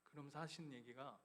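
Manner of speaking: God tenderly answering the weeping father; gentle voice of God. Retold or imitated. God's gentle reply voiced.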